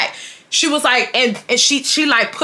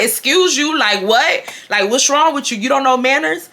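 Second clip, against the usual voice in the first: higher-pitched mock indignation; indignant retort; 4 semitones higher than usual. July to the boy who pushed through, indignant. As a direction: imitate an offended friend calling out rudeness.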